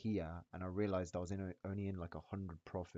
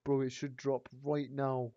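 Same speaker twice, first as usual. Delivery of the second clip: excited; 6 semitones higher, 6 dB louder than usual. Real, not acted. Urging the price down.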